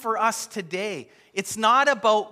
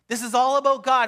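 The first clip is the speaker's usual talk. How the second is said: higher, louder, quicker proclamation; emphatic preaching; 6 semitones higher, 5 dB louder, faster than usual. Real, not acted. Preacher telling the congregation it is all about God, louder and faster. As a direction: drive the line home to the room. Preacher driving home main point.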